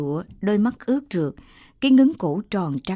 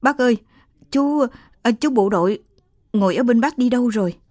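stammering in fright, louder and faster; stammering in fear; 3 semitones higher, 3 dB louder, faster than usual. Acted. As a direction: trip over the words, then hurry the question. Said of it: "Chị lập cập hỏi".

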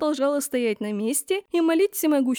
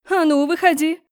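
higher, much louder command; angry demand; 5 semitones higher, 7 dB louder than usual. A narrator's reading. Empress orders girl from hiding, angry. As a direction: stamp and demand she come out.

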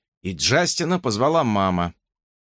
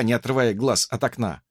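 ordinary talk

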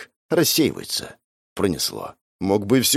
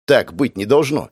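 plain reading voice

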